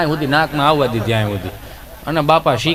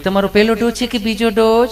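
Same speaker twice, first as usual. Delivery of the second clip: nurse voice; 4 semitones higher than usual. Acted. Nurse voiced in comic story.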